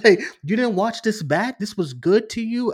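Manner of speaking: high, loud, laughing disbelief; incredulous reaction. Retold or imitated. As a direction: question the filmmakers in exasperated amusement. Acts out disbelief at the scene.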